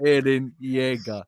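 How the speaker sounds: slow, drawn-out mock anime delivery; anime response. Recruiter answering callers with a slow mock anime voice. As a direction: say it like an anime hero, deadpan. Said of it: "anime response".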